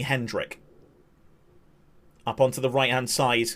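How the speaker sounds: calm match commentary; live play-by-play. Acted. Streamer calling the German free kick, calm play-by-play. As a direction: call each pass as it happens.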